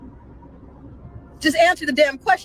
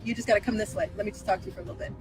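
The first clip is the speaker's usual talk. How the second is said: softer, luring come here; mock coaxing hush; 4 semitones lower, 8 dB quieter, faster than usual. Imitating them luring her aside, hushed. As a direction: coax her over quietly. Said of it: "do an impression of what I feel like they sound like".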